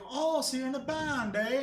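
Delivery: a shaky attempt at an Irish girl's lilt; lightly put-on Irish accent, teasing; bad Irish accent. Girl teasing the boy about his band, in a bad Irish accent. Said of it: "the accent of the female character you just did".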